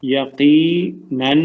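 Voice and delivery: یقیناً stretched very slowly, falling; very slow falling gloss. Shown as a demonstration. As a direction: draw یقیناً out and let it fall. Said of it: "اس کا معنی کیا ہوگا؟". (یقیناً بہت آہستہ، اترتی آواز میں)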